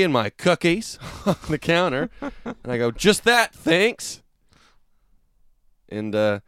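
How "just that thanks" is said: high, overly sweet customer tone; sugary politeness to make a point; extra friendly. Retold or imitated. To the cashier, passive-aggressive extra friendly. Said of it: "a special kind of tone where you're, you're extra friendly".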